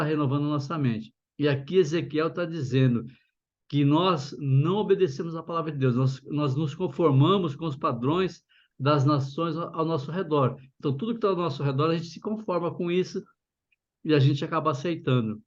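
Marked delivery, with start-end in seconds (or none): 6.0-15.4 numb mouth after anesthesia; numb from the dentist. Real, not acted. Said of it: "tô com a boca ainda anestesiada".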